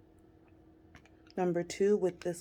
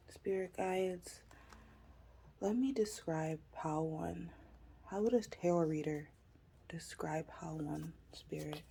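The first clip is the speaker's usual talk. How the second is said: hushed; 5 dB quieter than usual. Real, not acted. Asking spirit guides, hushed.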